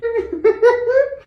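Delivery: high squealing giggle. Real, not acted. Cook laughing at her tuberculosis joke, high squealing giggle.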